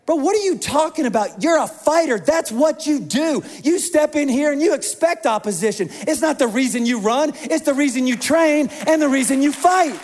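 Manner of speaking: a coach setting his fighter straight; coach's scolding. Pretend. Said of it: "Mark would be like".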